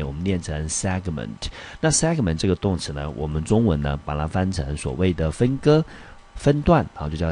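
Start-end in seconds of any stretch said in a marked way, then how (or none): 0.7-1.5 "segment" with the weight on its first syllable; stress on SEG. Shown as a demonstration. Teacher modelling a vocabulary word, segment stressed on SEG. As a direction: lean on SEG in "segment", let the rest fall. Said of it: "落在第一音节".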